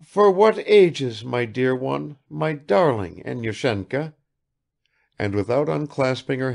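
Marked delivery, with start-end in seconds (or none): 0.0-4.1 mother doting on her son; tearful tenderness. Acted. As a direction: pour out love. Mother weeping over son.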